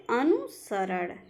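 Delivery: अनुसरण slowly in two parts; careful model pronunciation. Shown as a demonstration. Teacher answering own question for students, अनुसरण slow and divided. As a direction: spell out अनुसरण by sound, unhurried. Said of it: "क्या होता है?".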